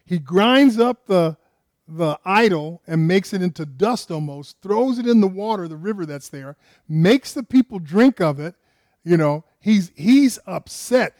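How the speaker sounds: loud, heated retelling; preacher building loud over Moses' anger; fiery preaching. Real, not acted. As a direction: pound out Moses' rage for the congregation. Moses' fury, preached with heat.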